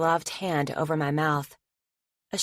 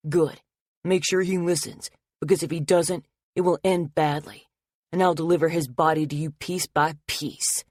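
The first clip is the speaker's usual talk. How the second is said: cold, louder promise of violence; menacing threat; 3 dB louder than usual. Acted. Attacker threatening Logan's life to Anna, menacing. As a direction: savor the threat.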